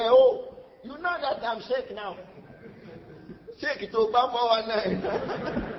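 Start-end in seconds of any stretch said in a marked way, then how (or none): 3.6-5.8 slow laughing joke. Real, not acted. Joking about the scammer.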